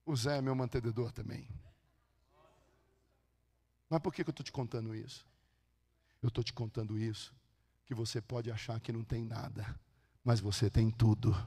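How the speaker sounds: soft, low, measured address; hushed sincerity. Real, not acted. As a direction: let the point land quietly after the shouting. Drops low for the moral.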